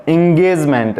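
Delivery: एंगेजमेंट said as "in-gayj-ment"; teacher modelling एंगेजमेंट; short I start. Shown as a demonstration. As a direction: open एंगेजमेंट on short "i", set apart. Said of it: "ई का ई हो गया छोटा ई".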